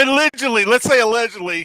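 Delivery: loud laughing correction; laughing loudly. Real, not acted. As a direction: laugh while adding allegedly.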